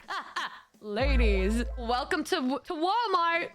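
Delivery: slow, drawn-out mock greeting; lightly imitating a weird greeter; creepy store greeter. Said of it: "and he said".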